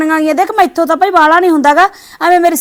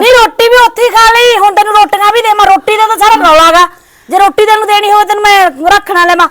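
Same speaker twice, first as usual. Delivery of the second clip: higher, raised scolding refusal; angry refusal; 4 semitones higher than usual. Acted. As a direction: throw the refusal back at her. Daughter-in-law refuses food, quarrelling. (ਰੋਟੀ ਦੇਣ ਤੋਂ ਗੁੱਸੇ ਨਾਲ ਇਨਕਾਰ)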